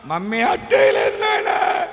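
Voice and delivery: put-on child voice. Small son telling his father mummy gave no dosa, whiny. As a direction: play the small boy complaining.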